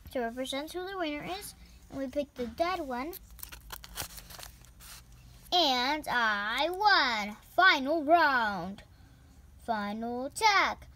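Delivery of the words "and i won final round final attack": booming fighting game announcer. Pretend. Announcer declares winner.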